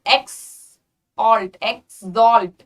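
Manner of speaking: एक्सॉल्ट stretched slowly into two parts, "eks-zolt"; slow teaching demo of एक्सॉल्ट, second half punched; drawn-out syllables. Shown as a demonstration. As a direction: break एक्सॉल्ट slowly at the x, falling. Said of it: "क्या बोला मैंने?".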